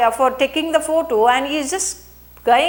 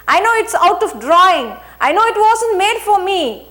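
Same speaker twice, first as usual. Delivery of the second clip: emotion with dignity; 4 semitones higher, 3 dB louder than usual. Retold or imitated. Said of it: "I said with emotion".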